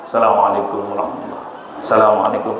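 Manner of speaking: assalamualaikum warahmatullah hurried and swallowed as salamalekum rahmula; rushed wrong salam. Shown as a demonstration.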